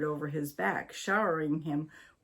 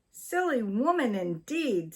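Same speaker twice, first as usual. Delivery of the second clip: indignant, higher retort; angrily; 5 semitones higher than usual. A narrator's reading. Wife answering her husband, indignant angry retort. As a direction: throw the insult back, offended. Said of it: "said Missus Twiddle angrily".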